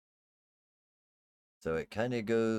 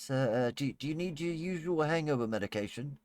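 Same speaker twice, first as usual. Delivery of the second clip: timid maid; 5 semitones higher than usual. Acted. GM plays the maid again.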